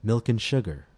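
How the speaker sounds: "and" said as a quick n, milk 'n sugar; reduced and. Shown as a demonstration. Teacher gives a model phrase to repeat, milk 'n sugar. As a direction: slur "and" to just n. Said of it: "listen and repeat ... the reduced form n".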